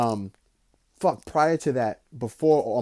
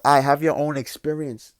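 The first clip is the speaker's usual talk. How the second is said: frustrated outburst; 6 dB louder than usual. Retold or imitated. Angry outburst retold.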